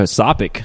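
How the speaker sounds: "sopic" with an s for topic; slip of the tongue. Real, not acted.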